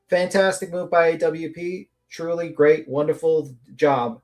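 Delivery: deadpan mock praise; sarcastic. Real, not acted. Host sarcastically congratulating the video makers on a bad move, sarcastic. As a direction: praise them with dry sarcasm. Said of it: "That's sarcasm, by the way".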